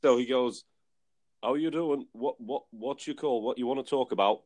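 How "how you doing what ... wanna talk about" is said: lightly put-on Barnsley accent, a bit higher; mock Barnsley phone greeting. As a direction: imitate a radio producer in Barnsley accent. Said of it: "like, a real Barnsley accent".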